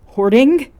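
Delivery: loud rising high squawk; offended echo of the insult; boy outraged at being called a hoarder; indignant outrage. Acted.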